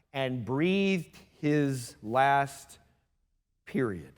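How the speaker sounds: drawn out word by word, dropping low; slow, solemn. A narrator's reading. Preacher reads of Jesus' death, very slow and solemn. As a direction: let it sink into a hushed full stop.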